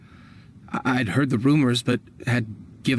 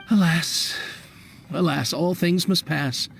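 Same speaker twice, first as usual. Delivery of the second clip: sentimental. Acted. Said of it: "getting all sentimental like this".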